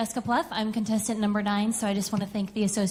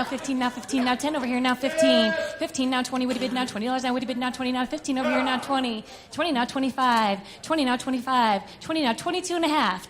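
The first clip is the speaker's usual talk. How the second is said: rapid bid-calling chant; auctioneer. Acted. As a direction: roll the numbers like an auctioneer.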